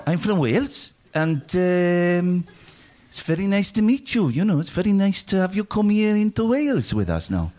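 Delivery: put-on a lightly done Welsh accent, giggling at the start; sing-song Welsh welcome, half laughing. Host proves he can do accents, in a mild Welsh accent. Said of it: "I can do the Welsh".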